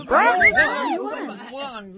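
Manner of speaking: high, breathless asking; panting question. A narrator's reading. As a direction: gasp out the question eagerly. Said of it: "panting and asking".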